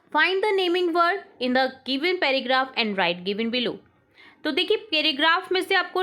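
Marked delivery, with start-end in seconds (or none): 0.1-3.7 very slow, word by word dictation. Shown as a demonstration. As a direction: read it out slowly for the class to write. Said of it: "teacher reads instruction". (धीमे-धीमे बोलकर लिखवाना)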